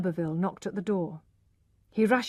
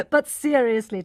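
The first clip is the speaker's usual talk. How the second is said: laughing; 5 semitones higher, 7 dB louder than usual. A narrator's reading. Alec laughs at his joke.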